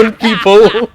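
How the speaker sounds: high laughing words. Real, not acted. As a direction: talk through laughter.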